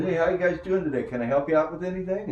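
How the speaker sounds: brisk, affable big-leaguer; friendly veteran. Retold or imitated. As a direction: rattle it off like a friendly star pitcher. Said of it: "he goes".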